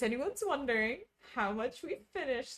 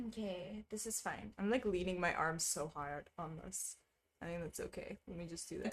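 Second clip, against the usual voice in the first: much softer, muttering while working; talking under the breath while stitching; muttered to self; 3 semitones lower, 9 dB quieter than usual. Real, not acted. Streamer murmurs to herself while concentrating, quiet mutter.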